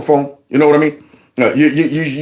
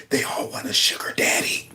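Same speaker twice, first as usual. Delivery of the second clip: soft whispered mishearing; breathy joke whisper of the misheard line; quiet whispered imitation; mock whisper; 4 semitones lower, 11 dB quieter than usual. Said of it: "Sound like he said".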